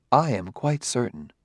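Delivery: mildly calm certainty; quietly sure, unruffled. Acted. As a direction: state it evenly, with no doubt. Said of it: "said Ardenneal calmly".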